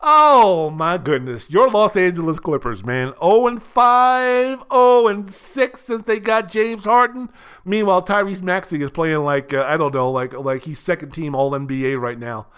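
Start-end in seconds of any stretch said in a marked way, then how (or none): 0.0-7.3 loud, slow gloat; gloating mock. Real, not acted. Taunting the Clippers over their losses, loud and slow. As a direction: savor their losing streak. Mocking the Clippers' losing streak.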